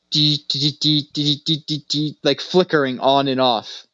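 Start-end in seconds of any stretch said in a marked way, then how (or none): 0.1-2.2 flicker sound. Retold or imitated. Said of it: "just went".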